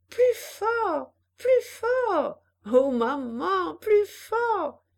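put-on high, loud excited girl's cries; child crying out. A narrator's reading. Jeanne urging her mother on the swing, high loud cries. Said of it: "elle criait".

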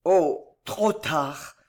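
faint, halting lament; despairing regret. A narrator's reading. Dying man hears her love too late, despairing. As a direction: let it sink with hopeless regret. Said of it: "d'un accent de regret désespéré".

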